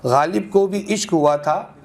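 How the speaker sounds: measured, rhythmic mushaira delivery; ghazal recitation. Acted. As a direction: recite in metre, lingering on each half-line. Resumes after addressing listener. (ग़ज़ल का लयबद्ध पाठ)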